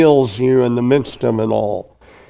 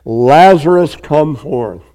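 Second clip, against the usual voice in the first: loud call. Acted. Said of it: "he cried with a loud voice".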